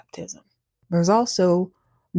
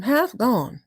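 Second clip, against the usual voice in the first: higher, sure statement of a name; matter-of-fact announcement; 4 semitones higher than usual. Acted. Cat telling mouse the kitten's name, casual and sure. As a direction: state the strange name as perfectly ordinary.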